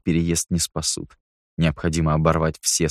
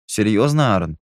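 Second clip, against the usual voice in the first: dismissive scoff; 3 semitones higher, 3 dB louder than usual. A narrator's reading. Nicky scoffing at Aaron over the list, dismissively. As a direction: scoff in disbelief, lifting the pitch. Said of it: "пренебрежительно фыркнул".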